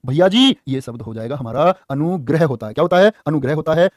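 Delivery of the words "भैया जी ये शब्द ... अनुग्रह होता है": mock student answer. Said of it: "आप कहोगे".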